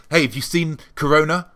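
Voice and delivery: mock cheery question. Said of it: "I would ask people".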